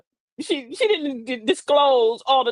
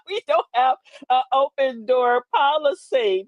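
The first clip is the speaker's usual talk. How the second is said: laughing; slower than usual. Real, not acted. Laughing while telling.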